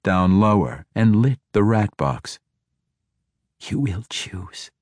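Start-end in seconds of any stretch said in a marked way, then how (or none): 3.6-4.7 slow, hushed menace; whispered. A narrator's reading. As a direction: draw it out softly, close to the captive. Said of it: "she whispered".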